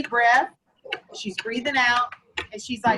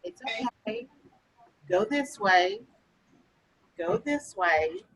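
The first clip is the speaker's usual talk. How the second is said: lightly voiced calm Anansi, slow and steady; calm spider; 2 semitones lower, slower than usual. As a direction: soothe the panicked antelope, unhurried. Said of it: "he spoke in a very calm voice".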